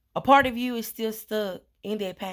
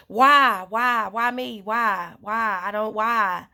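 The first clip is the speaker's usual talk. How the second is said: pleading why; 3 dB louder, slower than usual. Retold or imitated. Pleading with the person, asking why.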